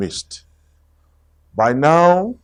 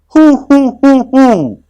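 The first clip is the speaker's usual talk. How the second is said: high, loud bouncy hoo-hoo; loud playful tiger hoots; Tigger hooting; 12 semitones higher, 8 dB louder than usual. Acted.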